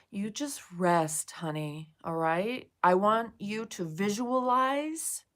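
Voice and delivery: slow, calm soothing guidance; guided visualization. Acted. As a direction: talk her gently into calm.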